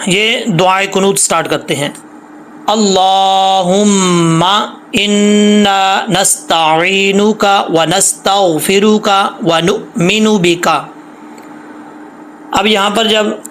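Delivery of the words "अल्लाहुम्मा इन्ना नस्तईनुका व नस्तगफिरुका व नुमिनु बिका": slow, drawn-out Quranic recitation. Shown as a demonstration. Teacher reciting the dua for students, slow and drawn out. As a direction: chant each word long and measured.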